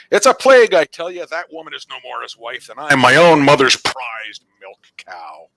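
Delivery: high, loud angry villager; a townsman raising his voice in alarm; villager yelling. Acted. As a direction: shout it at the crowd. Villager yelling about a plague.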